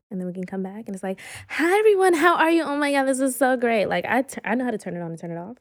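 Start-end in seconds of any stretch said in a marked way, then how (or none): 1.5-3.8 much higher, louder gushing greeting; bubbly social persona. Retold or imitated. Switching on the party face for a big group, gushing high greeting. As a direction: turn on the charm, bright and bubbly.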